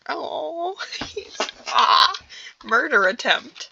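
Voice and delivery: laughing it out, slow. Real, not acted. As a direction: giggle through the words. Reader laughs at the scene.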